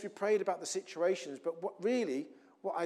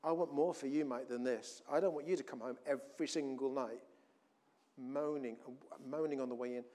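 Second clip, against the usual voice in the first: gentle voice; 3 semitones lower, 5 dB quieter than usual. Retold or imitated. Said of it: "God was just gently saying".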